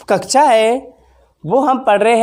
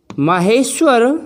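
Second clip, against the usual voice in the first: whispered name; much slower than usual. Shown as a demonstration. Teacher whispering the sutra name for emphasis. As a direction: breathe the word महेश्वर slowly. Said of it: "महेश्वर सूत्र।".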